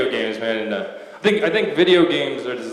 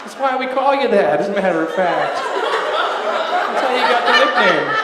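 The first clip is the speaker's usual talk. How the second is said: mock excited exclamation; 10 semitones higher, 4 dB louder than usual. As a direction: hype him up like a fan. Still teasing in raised voice.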